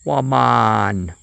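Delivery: quick mock Jamaican exclamation; Jamaican accent. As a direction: let a Jamaican accent slip out casually. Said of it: "I would say stuff with that accent".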